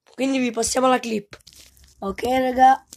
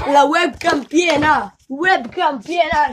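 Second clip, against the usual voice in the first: laughing shout; 2 semitones higher, 8 dB louder, slower than usual. Real, not acted. Laughing at the flip.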